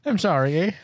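Canadian apology with a tagged-on eh; lightly put-on Canadian accent; mock Canadian accent. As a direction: play a polite Canadian stereotype. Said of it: "we don't say eh here".

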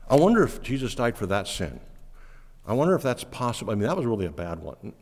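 quick, hushed, fretful inner voice; imitating a doubting believer. Preacher voicing a believer who doubts forgiveness, quick and hushed. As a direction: rattle off the worry under your breath.

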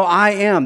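"am" said firmly and pressed; emphatic I am. Shown as a demonstration. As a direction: land hard on "I am". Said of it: "This is emphatic".

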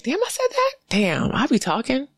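squeaky high shocked gasp of a line; mock surprise. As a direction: act caught off guard by your own words, jumping way up. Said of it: "I'm like".

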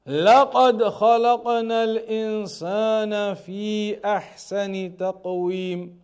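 Quran recitation. Acted. Teacher quotes the verse to his class, chanted recitation. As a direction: chant the verse in measured tajweed. Then Allah says.

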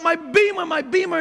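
dismayed mock shout; mock yell. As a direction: wail for the Beamer as he crashes. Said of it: "he's yelling out".

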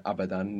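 "abadan" with the opening A stressed; stress on first syllable. Shown as a demonstration. Teacher shows an exception to the rule, stressing the first A in abadan. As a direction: put the accent at the start of "abadan". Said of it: "they have the accent on the beginning".

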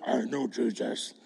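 deep horror-film demon voice; deep movie demon voice. Retold or imitated. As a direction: boom it like a horror trailer demon. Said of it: "real deep movie demon voice".

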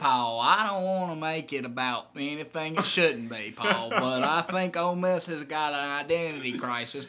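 a touch of twang, slowed; lightly voiced Southern caller. Hank telling Paul about Ole Miss mascots, mild twang. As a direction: keep the caller rolling. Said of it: "That's a good character".

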